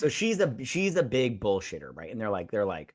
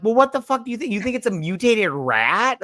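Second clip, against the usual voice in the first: much higher, incredulous mock outrage; exasperated retort; 9 semitones higher, 3 dB louder than usual. Answering the fat guy's dumb question with mock outrage. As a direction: fire back like it's obvious.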